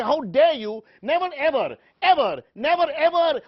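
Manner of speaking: hammed-up indignant tirade; mock outrage. Anchor shouts down the panel in mock fury.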